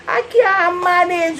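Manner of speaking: crying with laughter; barely holding it together; laughing near tears. Real, not acted. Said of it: "laughing near tears".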